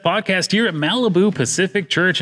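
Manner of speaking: big, bright radio announcer voice. Pretend. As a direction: open like a radio host. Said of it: "do I love using my radio vid".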